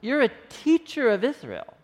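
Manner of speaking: a teacher confronting a fellow teacher; in his face. Retold or imitated. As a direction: get right in his face and push him. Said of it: "kinda gets in his face".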